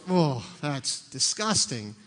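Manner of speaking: a slow disgusted "Oh"; disgusted groan. Pretend. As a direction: drag it out, grossed out. Everybody's reaction to dog.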